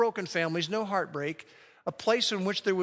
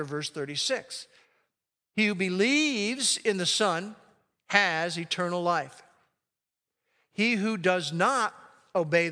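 scripture reading. Acted. Pastor reading John three sixteen to the congregation, solemn. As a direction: proclaim the verse with weight.

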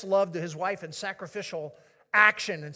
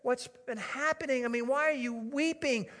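bewildered husband; 5 semitones higher than usual. Acted. Husband bewildered by his sobbing wife.

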